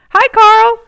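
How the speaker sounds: high, loud eager hello; excited greeting. Acted. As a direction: greet your friend with a burst of energy. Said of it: "said Ron".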